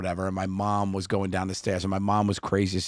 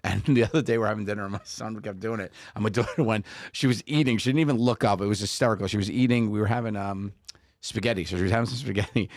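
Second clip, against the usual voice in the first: normal talking voice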